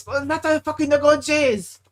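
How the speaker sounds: high, loud mock Asian accent; caricatured Asian-accent sports yell; thick Asian accent. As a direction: imitate the manager cheering in an Asian accent. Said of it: "In his thick Asian accent".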